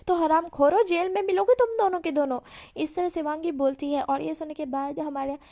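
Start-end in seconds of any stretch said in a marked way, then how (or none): 0.1-2.4 raised, scolding voice; angry scolding. Acted. Mother scolding the leering boys, raised voice. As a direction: tell them off loudly.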